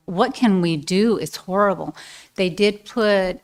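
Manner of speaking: talking with a numb mouth. Real, not acted. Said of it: "My mouth is numb".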